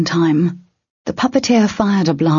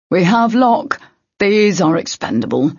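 calling out; 3 semitones higher than usual. A narrator's reading. Puppeteer announcing to the trackers, calling out. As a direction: declare it across the battlefield. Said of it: "the puppeteer called out".

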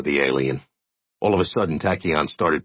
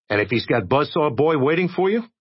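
higher, worried question; worried young man; 9 semitones higher than usual. Acted. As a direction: warn him of danger. Jay warns Tachyon.

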